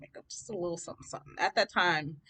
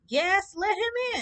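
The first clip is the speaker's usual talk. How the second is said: high, loud, slow call from another room; loud as heck; 5 dB louder, slower than usual. Retold or imitated. Mom calling loudly from the next room, high slow shout. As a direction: call it out cheerfully from upstairs. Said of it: "she says loud as heck".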